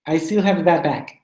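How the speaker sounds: "I still have a bad back" run together briskly. Shown as a demonstration. Teacher asks students to say it quickly, demonstrating briskly. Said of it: "Can you say it quickly?".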